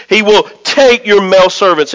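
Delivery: "take" punched within the phrase; stress on TAKE. Shown as a demonstration. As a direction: land firmly on "take". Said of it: "I'm gonna emphasize the word".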